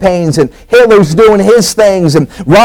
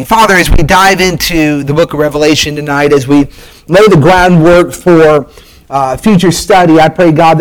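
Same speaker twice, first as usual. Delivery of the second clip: earnest, unhurried prayer voice; preacher praying over the study before the sermon, earnest; pulpit prayer; 3 semitones lower than usual. Acted. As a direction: lead the church in sincere prayer. Leads an opening prayer.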